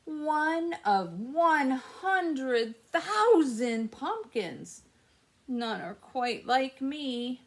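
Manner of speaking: slow storybook reading; reading to children. A narrator's reading. Teacher reading The Ugly Pumpkin to kids, storybook voice. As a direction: read it gently to the class. Reads picture book aloud.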